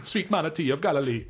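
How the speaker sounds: a bad Jamaican accent for a joke. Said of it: "This is a terrible Jamaican accent".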